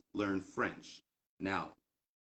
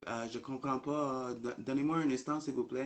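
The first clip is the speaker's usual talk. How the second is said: lightly voiced puzzled shop girl; 5 semitones higher than usual. Confused shop girl in French.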